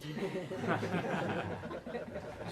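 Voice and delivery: high unvoiced microwave beeping; microwave beeps. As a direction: beep like a microwave oven. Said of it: "my impression of a microwave".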